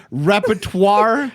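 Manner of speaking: "repertoire" said slowly and clearly; pronunciation correction. Shown as a demonstration. Host correcting the streamer's word, slow careful "repertoire". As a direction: sound out "repertoire" slowly, every syllable.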